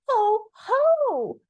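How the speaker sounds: very high, loud little cry; small creature trying hard to be fierce; fierce as possible. A narrator's reading. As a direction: let out a high, drawn, fierce call. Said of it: "as fiercely as he could".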